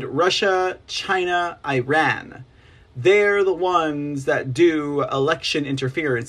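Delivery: normal talking voice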